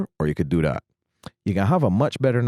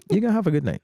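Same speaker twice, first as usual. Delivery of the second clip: laughing; 11 semitones higher, much faster than usual. Real, not acted. Repeats punchline laughing.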